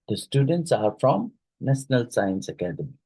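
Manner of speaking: "from" lifted, then falling through to "Academy"; falling intonation. Shown as a demonstration. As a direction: finish "Academy" on a downward statement tune. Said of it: "ends with a falling intonation".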